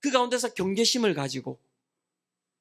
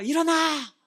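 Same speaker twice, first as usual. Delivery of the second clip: higher-pitched imitation of a parent's wake-up call; mock parental yell; 5 semitones higher, slower than usual. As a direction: play a parent rousing a child. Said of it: "부모님들 다 싸움이 있지 않습니까". (아이 깨우는 부모 흉내)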